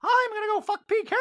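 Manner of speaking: high mock Dorit; Dorit impression. Recapper correcting to Dorit, high mock voice. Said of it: "Dorit goes".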